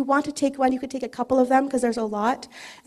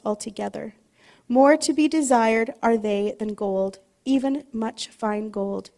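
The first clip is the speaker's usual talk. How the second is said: slow, rhythmic psalm reading with falling line ends; measured, reverent reading aloud; slow scripture reading. Acted. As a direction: let each line land before the next. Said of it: "I would like to read it slowly together".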